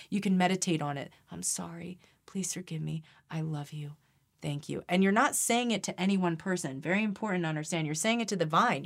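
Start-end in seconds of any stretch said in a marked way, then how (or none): 1.3-4.8 softer mantra, each line set apart; meditative mantra. Shown as a demonstration. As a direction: repeat it quietly like a meditation. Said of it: "Say it as a mantra".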